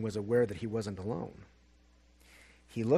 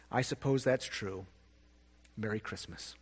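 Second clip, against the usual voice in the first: muttered; 3 semitones lower, 6 dB quieter than usual. Acted. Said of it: "Barrington muttered, his eyes filling with tears".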